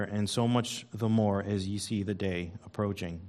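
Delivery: measured Bible reading from the pulpit; scripture reading. Acted. Preacher reading Hebrews to the congregation, measured scripture reading. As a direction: read the verses out steadily.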